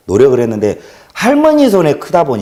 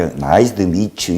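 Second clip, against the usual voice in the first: English greeting in a lower, light Jeolla lilt; Jeolla-accented English; 5 semitones lower, 4 dB quieter, much slower than usual. Shown as a demonstration. Speaker repeating his English greeting for viewers, light Jeolla accent. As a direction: let a little Jeolla dialect colour the English. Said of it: "영어를 해도 전라도 사투리 같이".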